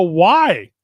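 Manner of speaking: baffled, hammed-up disbelief; incredulous. Asking his friend why he'd want midgets, incredulous.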